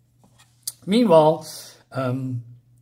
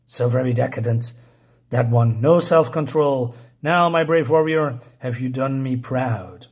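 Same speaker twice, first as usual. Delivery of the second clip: lightly voiced haughty queen; 3 semitones lower, 3 dB louder than usual. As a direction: lightly play a queen addressing her warrior. Voices the queen addressing her warrior.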